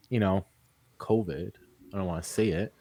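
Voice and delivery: hushed, dropping the voice low; whispering. Real, not acted. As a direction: whisper it like a forbidden word. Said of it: "Why are we whispering?".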